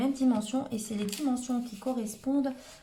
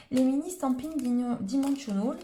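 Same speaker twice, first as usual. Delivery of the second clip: real French-accented English, louder; accent anglais maladroit; 6 dB louder than usual. Real, not acted. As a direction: stumble through English words with a French accent. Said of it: "excusez-moi pour mon accent anglais". (anglais prononcé avec un fort accent français)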